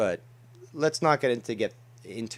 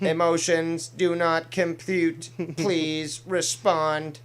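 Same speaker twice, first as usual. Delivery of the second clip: robot voice; 4 semitones higher, 3 dB louder, much slower than usual. Pretend. Robot voice, slow monotone.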